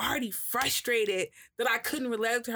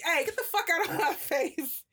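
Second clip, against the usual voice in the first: much higher, laughing fierce brush-off; mock fierce snap; 10 semitones higher than usual. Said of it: "The fucking fiercely like".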